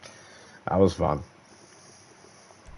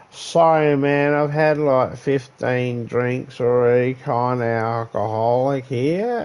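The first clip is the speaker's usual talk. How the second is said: put-on drunk mate; 5 semitones higher, slower than usual. Drunk guy apologising at wedding.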